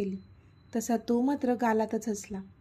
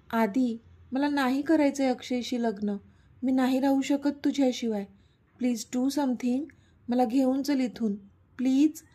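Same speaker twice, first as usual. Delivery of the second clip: crying and pleading. Acted. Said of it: "Yuvika आता रडत रडत त्याला सांगत होती".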